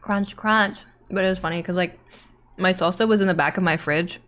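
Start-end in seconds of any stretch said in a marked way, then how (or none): 0.0-0.8 whispered crunch. Pretend. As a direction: breathe the word gently. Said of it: "Crunch A S M R".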